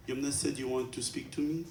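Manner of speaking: put-on a light Egyptian accent on a small boy's question; little Egyptian accent. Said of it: "That's a little Abdu's Egyptian accent".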